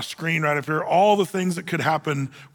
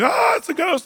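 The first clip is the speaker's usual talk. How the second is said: high-pitched acted cry of alarm; mock freak-out; 13 semitones higher, 3 dB louder than usual. Disciples spotting a figure on the water, mock panic. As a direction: imitate panicked men crying out. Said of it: "they're freaking out".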